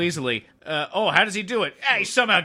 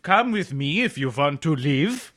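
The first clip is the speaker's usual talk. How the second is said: polite German Arnold; 3 semitones lower, slower than usual. Pretend. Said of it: "just like a polite".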